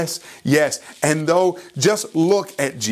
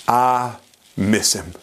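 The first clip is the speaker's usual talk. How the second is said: halting and heartbroken; 4 semitones lower, slower than usual. Retold or imitated. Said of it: "the words that broke his heart".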